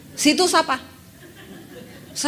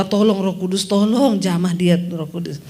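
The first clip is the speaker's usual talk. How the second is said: 1 earnest prayer; 5 semitones lower, 5 dB louder than usual. Retold or imitated. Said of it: "Saya berdoa".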